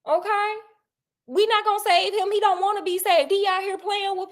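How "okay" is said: stern threat. Retold or imitated. Sherlock holding Watson back behind the curtain, stern and threatening. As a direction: hold your friend back with a threat. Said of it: "Sherlock grabbed him and was like".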